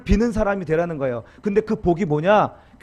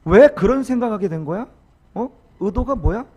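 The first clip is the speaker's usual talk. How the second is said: 다그치는 추궁. Retold or imitated. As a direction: push for an answer, rising at the end. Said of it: "이렇게 추궁하는 거". (다그치듯 몰아붙이는 추궁)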